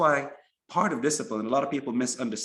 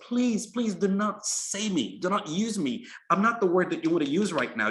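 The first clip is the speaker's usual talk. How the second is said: mock screamed plea; 4 semitones higher than usual. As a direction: beg the speaker not to use you. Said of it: "screams to you and says".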